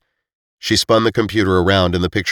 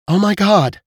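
stunned; 13 semitones higher than usual. Acted. Sudden realization after jaw drops.

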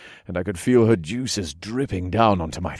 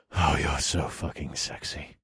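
low growl; 5 semitones lower, 7 dB quieter than usual. A narrator's reading. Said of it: "I growled".

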